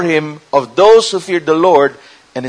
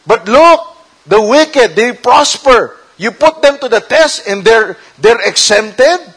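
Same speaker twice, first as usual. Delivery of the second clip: louder, higher-pitched protest to God; whining complaint; 4 semitones higher, 4 dB louder than usual. Acted. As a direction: complain to the Lord, pleading your case. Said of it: "They were whining".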